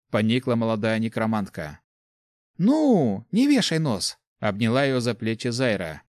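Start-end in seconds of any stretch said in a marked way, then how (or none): 2.6-4.2 cheering up. A narrator's reading. Cheering up a sad friend.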